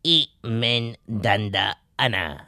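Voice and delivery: marciano muy lento; voz de marciano. Shown as a demonstration. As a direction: repite como un alienígena. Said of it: "un poco con voz de marciano". (voz de marciano lenta)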